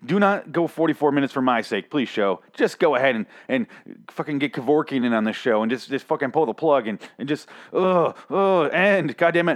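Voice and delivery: fed up with a long episode; exasperated rant. Retold or imitated. Vlogger ranting at a dragging episode, mock exasperated. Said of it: "Literally screaming at my computer".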